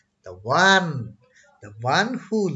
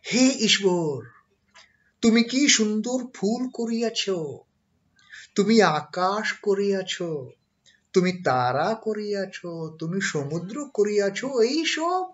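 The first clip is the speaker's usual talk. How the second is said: imitating prayerful orator; 5 semitones higher, much faster than usual. Imitating Keshav's praise of God.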